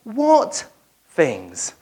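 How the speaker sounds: coy playing dumb; mock innocent. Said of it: "Jesus ... says".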